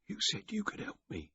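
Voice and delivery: soft, high and weak; shaky plea from the hay. Acted. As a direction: plead from exhaustion. Weak hungover man pleading.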